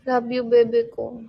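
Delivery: attempted baby talk. Shown as a demonstration. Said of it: "Hindi ba baby talk na yun".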